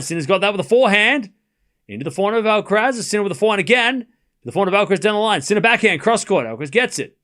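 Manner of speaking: quick running tennis commentary, calling each shot; live play-by-play. Acted. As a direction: call the rally shot by shot as it happens.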